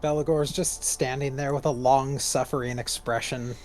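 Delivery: talking while eating crunchy snacks; crunching chips. Real, not acted. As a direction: speak around a mouthful of chips. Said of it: "sorry for the crunchy crunches".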